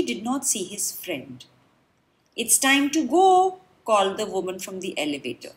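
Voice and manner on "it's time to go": loud, bright call to the group. Acted. Tour guide calls the crowd back to the elevator, loud. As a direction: round up the tourists.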